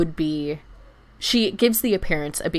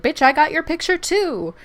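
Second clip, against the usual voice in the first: higher, louder gleeful comeback; a sassy gotcha, raised and loud; triumphant retort; 10 semitones higher, 6 dB louder than usual. Retold or imitated. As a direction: fire it back with glee. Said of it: "she's like".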